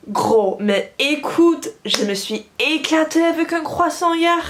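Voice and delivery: animated, pitch climbing into excitement; excited. Acted. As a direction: gush to a friend with big news. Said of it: "this really exciting thing".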